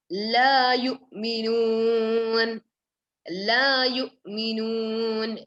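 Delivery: "La" stretched long and slow, vowel held. Shown as a demonstration. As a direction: hold the "La" vowel long before yu'minun. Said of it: "it should be, um, stretched".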